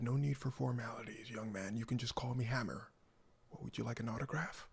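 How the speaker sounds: understated, unbothered big star; low, soft, courteous put-on formality; composed star. A rapper politely brushing off a young man, composed. Star coolly greets his challenger.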